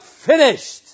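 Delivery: loud high triumphant cry; ringing shout of completion; cried out. Acted. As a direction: call it out in victory. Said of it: "he cried out".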